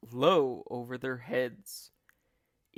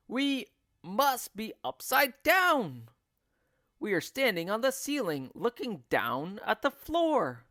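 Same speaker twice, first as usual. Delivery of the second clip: stare in horror; Mister Twit aghast; 8 semitones higher, 4 dB louder than usual. A narrator's reading. Mister Twit aghast at standing on the ceiling.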